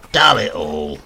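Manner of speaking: put-on gruff old grandfather exclaiming. A narrator's reading.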